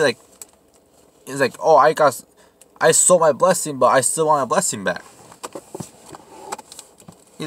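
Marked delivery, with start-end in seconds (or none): 1.6-5.0 higher-pitched, louder mock protest; a touch of indignant pleading; mock Esau complaint. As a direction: lightly act out a petulant plea. Voices Esau whining for blessing.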